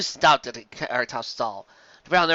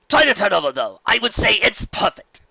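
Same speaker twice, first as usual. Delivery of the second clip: high, loud, courtly welcome; gracious nobleman; 8 semitones higher, 7 dB louder than usual. A narrator's reading. Fancy Pants greeting the contestants, loud and courtly. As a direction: address the crowd like a genteel aristocrat. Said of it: "said Fancy Pants".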